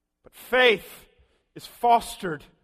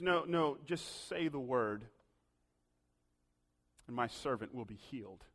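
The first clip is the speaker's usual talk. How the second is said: humble plea; 8 semitones lower, 11 dB quieter than usual. Acted. Centurion humbly asks Jesus.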